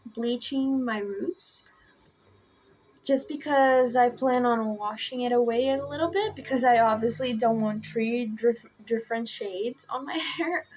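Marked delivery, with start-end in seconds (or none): 3.0-10.7 talking with a dry mouth; sticky, dry-mouthed speech. Real, not acted. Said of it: "my mouth is really dry right now".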